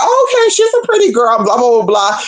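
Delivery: lightly hammed-up casual approval; mimicking him. The man rating her photo, high mock voice. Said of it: "And he's like".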